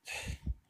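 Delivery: quiet, unvoiced sigh. Real, not acted. Creator worn down by new channel rules, sighing. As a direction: let out a soft breathy sigh.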